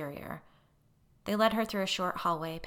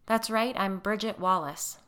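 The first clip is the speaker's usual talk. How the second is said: steady reply; 4 semitones higher, 6 dB louder than usual. A narrator's reading. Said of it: "she replied, holding his gaze".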